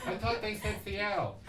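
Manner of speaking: mock English accent; attempted English accent. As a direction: quote a confused local in shaky English accent. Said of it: "I can't do the English accent".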